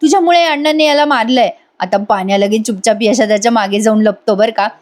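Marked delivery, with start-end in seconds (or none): 0.0-1.5 a touch higher, mild imitated anger; mock angry scolding. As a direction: scold him lightly, as Avni. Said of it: "चिडून म्हणते". (अवनी पाण्यावर हलक्या नकली रागाने ओरडते)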